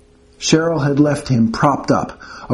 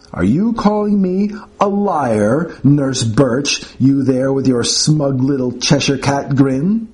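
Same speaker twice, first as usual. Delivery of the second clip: affronted professor; slower than usual. Acted. Professor challenging nurse.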